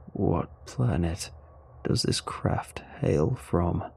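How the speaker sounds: low, very slow alien voice; deep, drawn-out alien question; subdued alien. Acted. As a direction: ask slowly and low, as a crushed alien. Crushed alien asks after silence.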